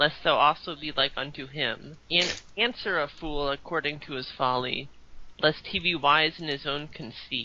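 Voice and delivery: plain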